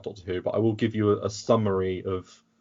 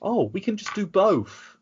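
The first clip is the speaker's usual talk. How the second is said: eureka voice; 10 semitones higher, slower than usual. Retold or imitated. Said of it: "someone grasps that concept and goes".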